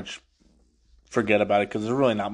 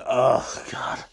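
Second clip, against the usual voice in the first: groaning disgust. Retold or imitated. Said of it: "Team Avatar just going".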